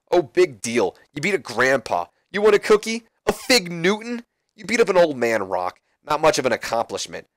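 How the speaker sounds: lightly voiced heel belittling rival; Chris Jericho. Jericho mocks Rock.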